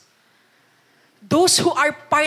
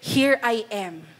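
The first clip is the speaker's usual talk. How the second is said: sincere; 3 semitones lower, slower than usual. Retold or imitated. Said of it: "you can be like Isaiah and said".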